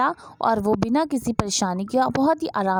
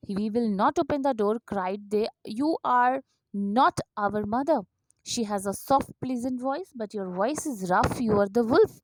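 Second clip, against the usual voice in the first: story reading; much slower than usual. Acted. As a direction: read gently, slowly, for little ones. Slow English story reading, softer. (धीमी आवाज़ में धीरे-धीरे कहानी पढ़ना)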